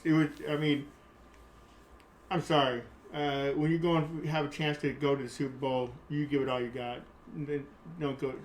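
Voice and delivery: bothered, halting and stumbling; flustered stuttering. Real, not acted. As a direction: lose the thread out of real frustration. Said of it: "yeah, I'm stuttering. It bothers me so much".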